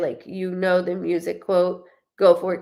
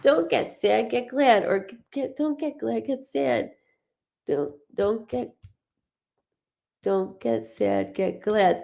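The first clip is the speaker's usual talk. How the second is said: imitating a commercial jingle. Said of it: "mimicking a trash bag commercial".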